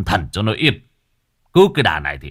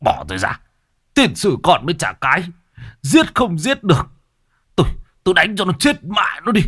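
angry shout; 6 semitones higher than usual. Acted. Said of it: "chỉ tay mà quát".

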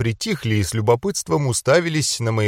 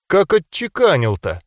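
higher, mildly amazed remark; surprised mutter; 6 semitones higher than usual. A narrator's reading. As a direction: marvel aloud, pitched up. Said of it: "удивлённо пробормотала". (удивлённо, повыше)

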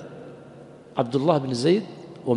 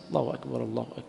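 softer, feeble call of God is great; weak call to prayer; 2 semitones lower, 6 dB quieter, faster than usual. Shown as a demonstration. Teacher mocking a weak muezzin, feeble and soft. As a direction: mimic a weak muezzin who barely lifts his voice. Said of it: "بعض الإخوة الصوت ضعيف جدًا".

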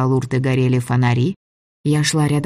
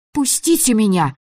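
scream; 8 semitones higher than usual. A narrator's reading. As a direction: yell at him to let go. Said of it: "крикнула я".

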